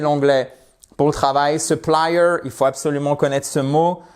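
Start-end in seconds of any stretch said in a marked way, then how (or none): 1.6-2.4 "supplier" with weight on PLI; stress second syllable. Shown as a demonstration. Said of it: "accent tonique".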